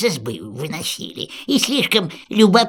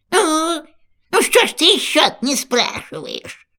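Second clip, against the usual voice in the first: higher, pressing insistence; insistent prodding; 7 semitones higher, slower than usual. Acted. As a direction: push her to ask, pointed. Yaga pushes again, higher.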